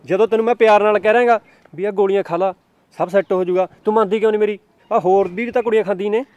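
bully her into it; angry shouting. Acted. Boyfriend yells to force pills. (ਗੁੱਸੇ ਵਿੱਚ ਉੱਚੀ ਦਬਕਾ)

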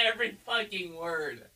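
ordinary delivery

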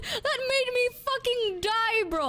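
real high-pitched, laughter-strained delivery; laughing hard. Real, not acted. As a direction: gasp it out, cracking up at the memory. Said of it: "I was laughing so hard".

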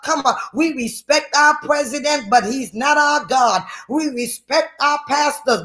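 driving, high-pitched sermon delivery; full-force preaching. Real, not acted. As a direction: preach it hard in relentless, repeated exhortations.

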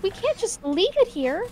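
a light Southern twang, scolding; partial Southern commander. Acted. Player voicing the commander to the team, light Southern scolding. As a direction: bark at them like a Southern commander. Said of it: "Like, partial Southern".

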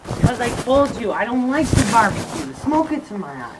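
lightly acted husband refusing; scripted acting. Husband tells wife he hates barbecue, scripted acting. Acting scene lines for camera.

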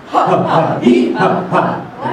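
ha ha he ha ha dissolving into a breathy laugh; laughing drill; belly laugh. Shown as a demonstration. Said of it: "Put your hand on your belly".

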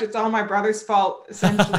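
laughing through a playful blame; real laughter while joking. Real, not acted. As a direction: chuckle it out, teasing.

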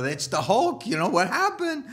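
laughing joke. Pretend. Joking about Hulk transformation.

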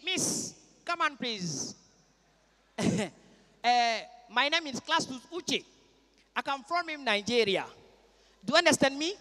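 put-on soft Nigerian English with an Igbo accent. Igbo man calling over a young woman, soft Nigerian accent. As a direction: woo her in halting Igbo-accented English. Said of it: "Un Ibo qui voit une godoula".

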